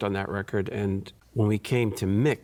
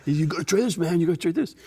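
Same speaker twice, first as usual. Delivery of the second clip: imitating Nick; 7 semitones higher, 3 dB louder, faster than usual. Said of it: "'cause of Nick".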